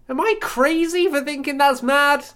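nineties sitcom catchphrase, high and slow; sitcom delivery. Real, not acted. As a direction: ask it like a sitcom star. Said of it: "like I'm a sitcom character".

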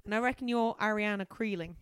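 hammed-up Aussie accent; horrendous Australian. Carly guessing who she is meeting, in a horrendous Australian accent. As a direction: attempt a broad Australian accent. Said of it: "Horrendous Australian".

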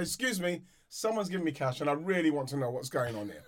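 lightly put-on posh English; a touch of posh, politely querying. Player politely querying a cash gift, lightly posh voice. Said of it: "you put on a posh voice".

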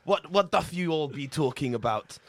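mock medieval tavern gent; a lightly hammed olde English greeting; hammy stage actor. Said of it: "ye olde lad chat".

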